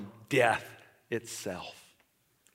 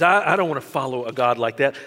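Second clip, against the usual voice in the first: louder, retold protest at God; bitter, raised retelling of a boy rejecting God; angry outburst; 2 semitones lower, 6 dB louder than usual. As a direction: throw the words out in bitter refusal. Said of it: "He goes".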